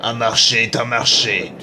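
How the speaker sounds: low, lightly menacing villain; booming echoing villain monologue. Acted. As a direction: speak down to them like the villain. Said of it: "j'ai fait la voix du méchant".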